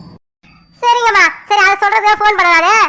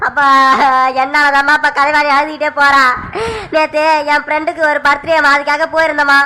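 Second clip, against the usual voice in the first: remorseful son Sakthi; 2 semitones lower than usual. Acted. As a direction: confess to your mother in a lowered voice.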